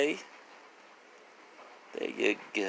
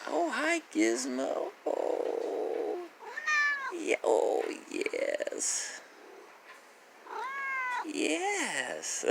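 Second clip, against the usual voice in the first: much higher and softer, partly whispered; soft pet coo; 5 dB quieter, slower than usual. Real, not acted. Owner petting Gizmo, soft high coo.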